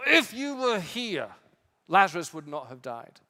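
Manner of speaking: a grieving sister blaming him; Martha's wounded reproach to Jesus; reproachful grief. Acted.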